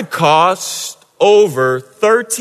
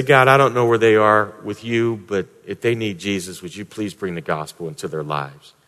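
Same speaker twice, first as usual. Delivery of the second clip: quiet prayer; 5 semitones lower, 4 dB quieter than usual. Shown as a demonstration. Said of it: "and just say".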